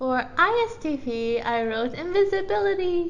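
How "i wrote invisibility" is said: high, eager, enthusiastic announcing tone. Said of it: "I said it so enthusiastically".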